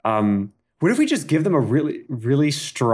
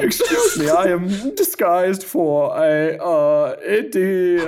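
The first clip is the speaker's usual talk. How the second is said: put-on slow, light German accent; a hint of a German accent, explaining the disguise; 4 semitones higher than usual. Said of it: "take it kind of in a Flula Borg direction".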